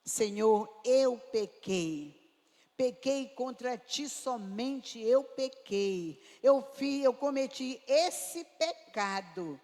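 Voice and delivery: loud, slow, heartfelt prayer; earnest confession. Shown as a demonstration. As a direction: confess it fully, naming the sin, slowly and loud. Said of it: "Pecado tem nome". (confissão sincera, lenta e forte)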